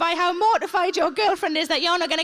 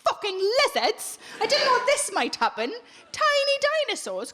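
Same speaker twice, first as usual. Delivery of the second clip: mock alarm; 6 semitones higher than usual. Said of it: "I would think".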